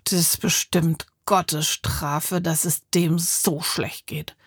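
slow, hushed whisper; soft, low inner-voice murmur; whispered thought. A narrator's reading. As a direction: whisper it as a private judgement. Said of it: "dachten so bei sich".

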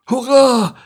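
high, loud cheer; high loud joyful hurrah; breathless cheer. Acted. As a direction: turtle cheering from the shore. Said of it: "rief Larissa ein wenig atemlos".

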